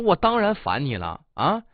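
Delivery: retold scornful comeback; sharp-tongued. Clerk berating the man for asking twice, sharp-tongued. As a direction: pile on mildly venomous questions. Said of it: "嘴还挺毒的".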